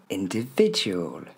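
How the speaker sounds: INDIVIDUAL as "in-dé-VÉ-dju-ol", slowly; slow teacher's "individual"; stress on VI. Shown as a demonstration. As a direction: lift VI in "individual", then fall. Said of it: "il porte l'accent tonique".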